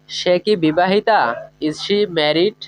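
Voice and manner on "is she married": slow careful English. Shown as a demonstration. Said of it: "এভাবে বলবো।".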